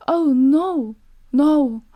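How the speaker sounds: high, loud panicked protest; frightened denial. Acted. Terrified wife answering her husband Bluebeard, high and loud. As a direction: deny it in a frightened rush.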